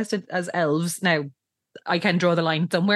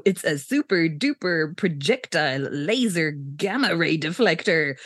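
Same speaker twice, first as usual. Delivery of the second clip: slow grand pitch; 3 semitones lower, slower than usual. Retold or imitated. Shred improvising a sales pitch.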